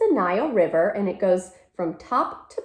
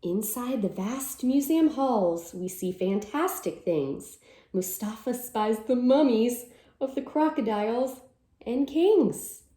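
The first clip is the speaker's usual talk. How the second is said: slow storybook telling, full of wonder; slow wondering read-aloud; reading to children; 2 semitones higher than usual. Acted. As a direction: draw them into the museum halls. Reads picture book aloud.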